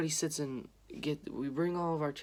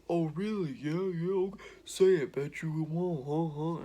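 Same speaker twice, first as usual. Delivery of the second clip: lauter, höherer, spöttisch herausfordernder Ton; cocky taunt; 4 semitones higher, 5 dB louder than usual. Retold or imitated. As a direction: nachgeahmter großspuriger Mitschüler, der ihn provoziert. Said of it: "dude's getting all cocky".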